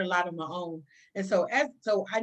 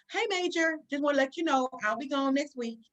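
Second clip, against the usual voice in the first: higher, breezy heads-up; casual announcement; 6 semitones higher than usual. Retold or imitated. Officer springs her absence on the major, casually offhand. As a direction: drop the news as if it's nothing.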